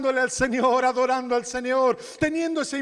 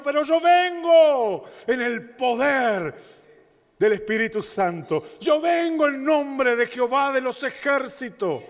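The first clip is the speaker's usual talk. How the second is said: David defying Goliath; 5 semitones higher than usual. Acted. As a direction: boom it out like a shepherd boy facing a giant. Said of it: "él dice".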